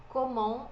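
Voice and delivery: Comment said as "ko-mon"; silent T. Shown as a demonstration. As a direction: leave the T off Comment. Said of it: "aqui o T não é pronunciado".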